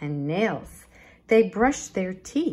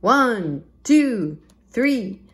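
shouting; 4 semitones higher, 5 dB louder, slower than usual. Acted. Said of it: "Iguanodon shouted".

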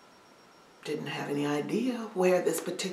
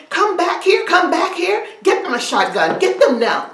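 louder, higher angry bellow; yelling and screaming; 7 semitones higher, 11 dB louder than usual. Acted. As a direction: yell after the runaways. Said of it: "Old Massa is yelling and screaming".

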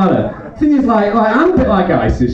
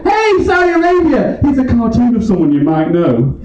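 calling out; 2 semitones higher than usual. Pretend. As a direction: shout across to Saudi Arabia, then deliver the jab. Comic calling out to Saudi Arabia.

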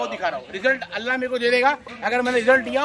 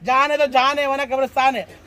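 louder, punchy rhyming hype; hype call; 4 dB louder than usual. Real, not acted. Goat seller hyping his charging goat, loud hype call.

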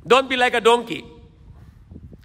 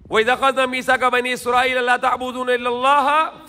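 Quran recitation; much faster than usual. Acted. Preacher quotes a Quran verse.

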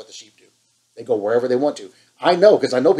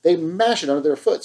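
fired up; 3 semitones higher than usual. Real, not acted. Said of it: "Sorry, I'm fired up".

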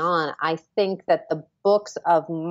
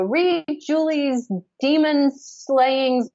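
quoted actor voice; 8 semitones higher, much slower than usual. Retold or imitated. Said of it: "So he's like".

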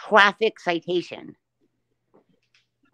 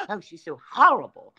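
lightly voiced pious church lady, gasping in mock horror; hint of a preachy Christian woman clutching pearls; mocking her critics in a light televangelist voice; 5 semitones lower than usual. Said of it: "Who's this Christian woman voice you're doing here? You sound like a televangelist".

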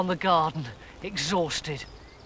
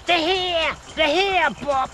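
excited high voice; 11 semitones higher, slower than usual. Acted. Ernie alarmed at the stinkers.

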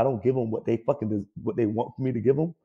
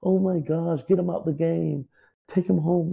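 mock whiny player; 6 semitones higher than usual. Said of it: "they just".

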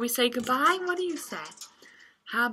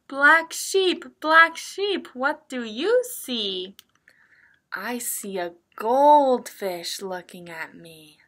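picture-book reading; 3 dB louder, slower than usual. Acted. Teacher reads a picture book to young children, sing-song reading. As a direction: read it in a lilting story rhythm.

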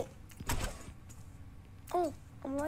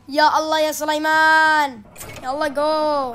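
a light imitation of an exasperated Arabic-speaking bus driver, a bit louder; imitating bus driver; 4 dB louder than usual. Bus driver urging Suleiman off, mildly loud mock exasperation. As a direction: hurry him off like a fed-up driver. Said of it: "the bus driver is like".

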